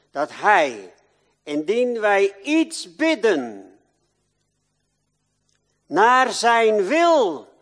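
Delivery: loud, high full-force preaching; fiery pulpit preaching, slow and loud. Acted. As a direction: proclaim it to the whole church.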